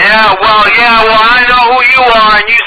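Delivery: hammed-up furious tirade; angry rant. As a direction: berate him like a crank neighbor. Caller shouts over victim.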